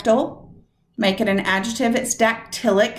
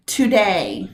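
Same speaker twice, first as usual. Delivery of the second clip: "Today" with DAY pushed up; stress on DAY. Shown as a demonstration. Teacher listening for the stressed syllable of "Today". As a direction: let your voice rise on DAY of "Today". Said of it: "listening for when my voice goes up".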